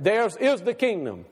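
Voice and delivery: "is" set firmly apart from "theirs"; stress on IS. Shown as a demonstration. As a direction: put the weight on IS. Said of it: "he's emphatic about what he says".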